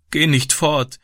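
put-on high, tearful child's plea; small girl pleading in distress; sobbing. A narrator's reading. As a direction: beg him to stay, acting the tears. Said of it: "schluchzte sie".

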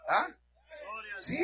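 usual speaking voice

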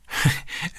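a soft, breathless giggle; girl's breathy giggle. A narrator's reading. Girl laughing at father's silly faces, breathy giggle. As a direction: giggle despite the tears. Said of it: "dass Robbie trotz allem zu lachen begann".

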